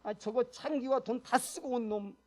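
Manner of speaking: a lightly voiced, grumbling resentful son; mildly acted indignant complaint; elder son's anger. Elder son complaining to his father, mildly acted resentment. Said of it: "크게 분노했죠".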